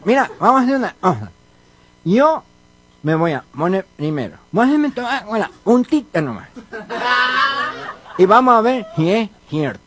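nasal cleft-palate speech; mock nasal speech impediment; gangoso. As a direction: talk through the nose with blurred consonants. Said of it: "yo nunca he tratado con otro gangoso".

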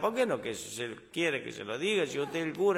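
put-on the girl pleading with the confessor in desperation; desperate. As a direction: beg him, at wit's end.

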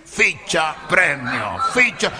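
see-saw words climbing in pitch; building gambler excitement. Acted. Galician carried away by slot machines, rising excitement.

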